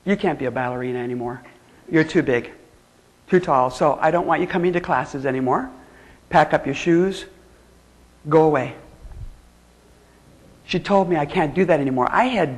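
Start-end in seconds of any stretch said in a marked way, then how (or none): 0.0-8.7 lower, clipped and fast dismissal; stern teacher. Retold or imitated. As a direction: send the pupil away coldly. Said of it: "she goes".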